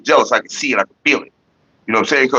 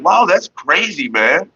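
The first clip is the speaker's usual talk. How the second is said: dry sarcastic wow; 5 semitones higher, much slower than usual. Retold or imitated. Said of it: "I was like".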